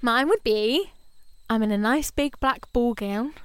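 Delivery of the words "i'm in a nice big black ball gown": fangirl voice. Real, not acted. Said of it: "Your fangirl voice is different to your normal voice".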